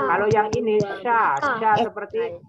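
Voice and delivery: sya pushed out hard, pressed. Shown as a demonstration. Teacher drilling pupils on a hard pressed sya. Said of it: "Harus ditekan".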